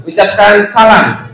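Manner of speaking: slow, spaced-out instruction; patient prompt. Acted. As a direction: prompt the puppet word by word. Teacher prompting puppet slowly.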